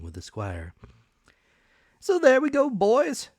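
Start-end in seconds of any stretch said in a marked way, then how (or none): 2.0-3.3 higher and louder, a bustling, eager supervisor; excitable officer voice. A narrator's reading. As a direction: play the keen revenue officer, pitched up. Mister Dance rallies the men.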